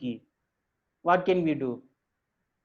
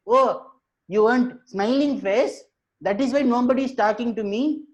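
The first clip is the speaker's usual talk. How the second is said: higher-pitched monkey voice; monkey's realisation; 7 semitones higher than usual. Acted. Monkey learning why nobody talks to it, realising. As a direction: let it dawn on you, pitched up.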